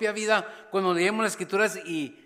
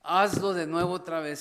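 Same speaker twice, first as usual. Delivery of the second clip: Hazlo punched louder, urgent plea; louder pleading prayer; 4 dB louder than usual. Acted. Preacher voicing a church's prayer, louder and urgent. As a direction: press the plea harder on Hazlo.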